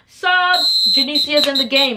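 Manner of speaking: high, loud gym call; announced substitution call. Retold or imitated. Coach sending a player into the game, high loud call. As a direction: call it out across the court.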